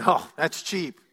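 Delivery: mock-delighted, laughing through it; amused fan. Pastor imitating country fans, laughing. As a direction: play a fan scoffing at the price with a chuckle. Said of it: "Country western fans are saying".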